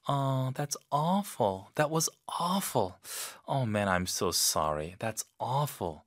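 gentle, slow, caring That's awful; soft sympathy. Shown as a demonstration. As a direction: comfort a friend softly and slowly. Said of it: "아주 부드럽게".

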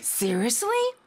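"Seriously?" lifted high at the end; rising tune on Seriously. Shown as a demonstration. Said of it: "꼭 끝을 올려서 말해야 되죠".

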